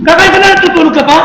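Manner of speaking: lightly mocking question; teasing jibe. Stranger teasing the pastor for praying before eating, mild mock taunt. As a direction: needle him with a smirk. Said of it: "Nang-aasar yung tao eh".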